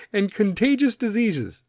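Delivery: mock the paranoid theorist; conspiracy theorist. Podcaster mocking conspiracy theory freaks, hammed-up know-it-all. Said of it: "conspiracy theory freaks".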